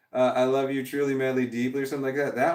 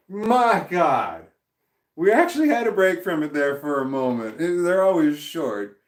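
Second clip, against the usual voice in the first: louder, higher, exasperated complaining; exasperated rant; 4 semitones higher, 5 dB louder than usual. Real, not acted. Streamer complaining to chat about losing the game, exasperated and loud. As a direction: vent your frustration at the chat.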